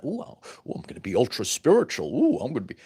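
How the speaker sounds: hammed-up dreamy cooing, quick and airy; mock spiritual gushing. Teacher mocking a fake-spiritual seeker, hammed-up cooing. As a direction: parody someone who wants to seem ultra spiritual.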